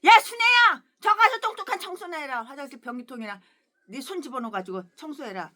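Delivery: bossy order, loud at the start; mock a rude pastor ordering her around; imitating arrogant pastor. Rude pastor ordering Sun-ae to clean toilets, mock bossy. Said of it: "건방지고 싸가지고 없고 갑질은".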